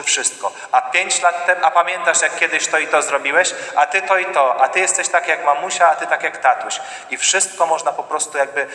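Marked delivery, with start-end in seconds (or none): 0.7-6.8 raised, higher reproaching voice; reproachful quarrel. Acted. Spouse dredging up the past in a quarrel, raised and higher. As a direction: fling old grievances, pitched up.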